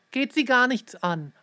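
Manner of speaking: angry shout, none of your business; furious reply. Acted. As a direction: shut the nosy man down in anger. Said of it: "antwortete Ted wütend".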